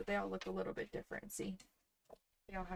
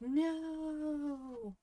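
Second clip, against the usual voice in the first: a sharp, high, loud "No!"; dismayed cry; 8 semitones higher, 5 dB louder than usual. Retold or imitated. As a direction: yelp at the ruined spreadsheet. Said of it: "and I was like".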